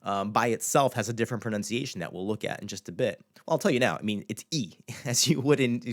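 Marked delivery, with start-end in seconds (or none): 4.5-4.7 "E" said as a long ee; English-style E. Shown as a demonstration. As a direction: say "E" like the English letter name. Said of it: "as you'd pronounce it in English".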